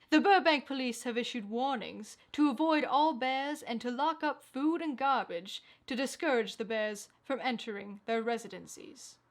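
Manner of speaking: steady anchor delivery reading the bulletin; crisp, measured newscaster voice; news read. Acted. Straight news read of bear story.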